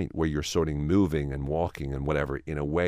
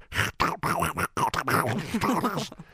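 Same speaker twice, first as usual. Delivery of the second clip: Donald Duck squawk; 13 semitones higher than usual. Shown as a demonstration. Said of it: "or a Donald Duck".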